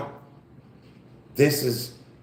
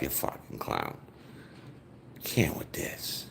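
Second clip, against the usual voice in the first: low unvoiced mutter under the breath; muttered insult; 10 semitones lower, 12 dB quieter than usual. Real, not acted. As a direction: mutter it aside, fed up.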